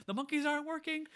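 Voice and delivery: high, loud call down below; shouting down. Retold or imitated. Toys shouting down to Buzz, in a high, loud call. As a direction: holler down to the yard. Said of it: "They're just shouting down".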